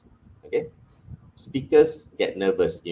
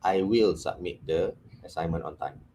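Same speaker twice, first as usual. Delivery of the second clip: committed statement; 3 semitones lower than usual. Shown as a demonstration. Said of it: "No, no, no".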